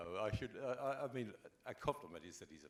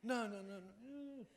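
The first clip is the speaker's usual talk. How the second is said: retold rejection; 14 semitones higher, slower than usual. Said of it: "and they".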